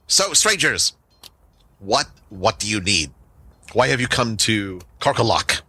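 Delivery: lightly voiced, stilted goblin leader; goblin chief. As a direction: question strangers with a hint of a formal chief. Game master plays goblin chief.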